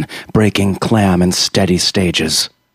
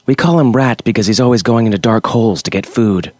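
put-on quick, bright child's voice; little girl explaining; 3 semitones higher, faster than usual. Little girl telling Creature about her friend, quick and bright. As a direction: rattle it off like an eager kid.

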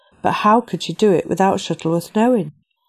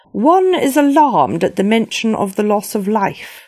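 regal queen voice; 4 semitones higher, 3 dB louder than usual. Acted. Queen Victoria speaks.

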